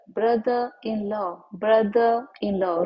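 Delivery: ब्रदर इन लॉ with no final r on ब्रदर; ब्रदर इन लॉ in a British accent, r silent. Shown as a demonstration. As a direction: drop the r of ब्रदर, British style. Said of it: "र को silent करिएगा".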